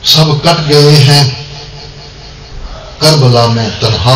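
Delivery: measured Urdu couplet recital; poem recitation. Acted. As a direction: recite to a gathering with pauses between phrases. Recites devotional verses.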